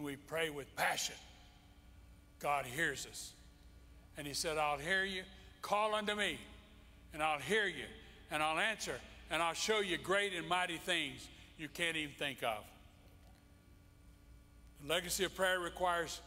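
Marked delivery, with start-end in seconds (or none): 4.6-12.6 proclaiming God. Acted. Preacher voicing God's promise.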